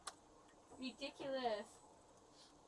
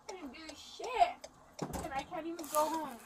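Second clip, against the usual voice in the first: angry protest; 3 semitones higher, 5 dB louder than usual. Real, not acted. Arrested woman protesting to the officer that she can't go home, angry. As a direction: push each word out in frustration.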